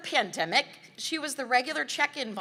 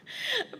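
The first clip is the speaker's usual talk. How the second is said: light laugh; 5 dB quieter than usual. Real, not acted. Amused aside mid-speech.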